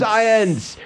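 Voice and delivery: high exclaimed SCIENCE; mock song shout. Host echoing the guest's song quote, high mock shout. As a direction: echo the song's shouted hook. Echoing the song's famous interjection.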